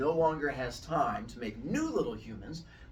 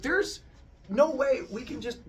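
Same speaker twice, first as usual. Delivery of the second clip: appalled squeak; 11 semitones higher, 4 dB louder than usual. Acted. Zeus appalled by the monsters.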